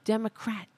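"Democrat" with the last syllable "crat" punched; stress on rat. Acted. Host mimics vilifiers of the party, "Democrat" stressed on rat. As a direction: hit the "rat" at the end of "Democrat". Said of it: "we're gonna emphasize the rat".

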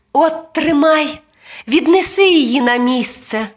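put-on high child voice; boy handing over. A narrator's reading. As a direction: hand it over as a little boy. Boy hands the star over.

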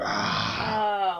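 high drawn-out creature roar; monster roar. Acted. Game master plays the monster biting, roaring. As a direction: roar as the beast lunges.

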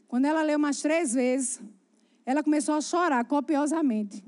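ordinary talk, nothing marked

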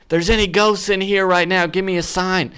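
high-pitched mock yell, held back in volume; imitated yell. Buddy calling out to the ghosts a second time, mock yelling. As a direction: act out a buddy summoning ghosts. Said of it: "And he yells it again".

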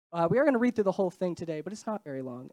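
blocked nose, nasal tone; stuffy nose. Real, not acted. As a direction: speak through a stuffy nose. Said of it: "although I'm a little stuffy and nasally today".

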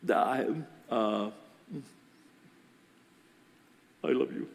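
stall, then mumble it without conviction; half-hearted. Retold or imitated. Woman repeating it back to pastor, half-hearted. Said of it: "Say it like you mean it".

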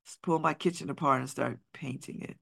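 talking between sips of tea; sipping hot tea. Real, not acted. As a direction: sip hot tea while speaking. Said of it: "I'm sorry, I'm sipping".

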